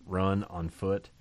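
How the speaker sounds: slow, deliberate "run on foot"; emphatic phrase. Shown as a demonstration. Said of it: "Notice the emphasis".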